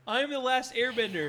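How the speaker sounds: high-pitched Airbender parody; mock movie hero. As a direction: declare the title like a hammed-up hero. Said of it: "He's like".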